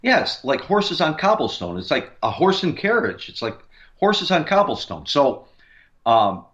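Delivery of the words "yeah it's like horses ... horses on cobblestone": higher-pitched re-enacted reply; retold excited agreement. Investigator retelling own answer to partner, lightly acted excitement. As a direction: act out agreeing eagerly, pitch raised. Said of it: "And I said".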